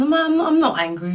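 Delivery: high-pitched mock "not angry"; feigned calm. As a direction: protest too much, voice jumping high. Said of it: "my blood is literally boiling".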